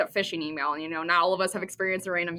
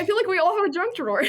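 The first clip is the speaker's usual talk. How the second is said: laughing; 10 semitones higher, much faster than usual. Real, not acted. Laughing while talking.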